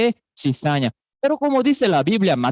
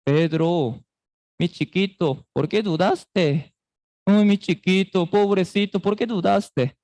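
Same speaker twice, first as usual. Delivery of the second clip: tender, coddling. Pretend. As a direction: coo it like soothing a little child. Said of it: "con qué tono, con qué voz".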